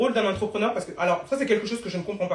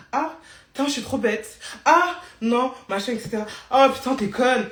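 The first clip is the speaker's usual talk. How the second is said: mock harsh inner voice; 4 semitones higher, 5 dB louder than usual. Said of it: "vous passez votre journée à vous dire".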